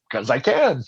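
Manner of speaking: said through a laugh; tossing off a cheeky answer while chuckling; laughing reply. Retold or imitated. Teammate Doty answering why he did it, laughing. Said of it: "I go".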